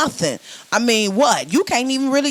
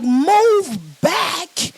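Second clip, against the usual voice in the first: annoyed command; 8 semitones higher than usual. Retold or imitated. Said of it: "You be like".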